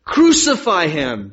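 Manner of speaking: slow, loud cry of a crowd; drawn-out, projected demand; crowd's shout. A narrator's reading. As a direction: shout it out slowly as the mob. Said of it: "they shouted".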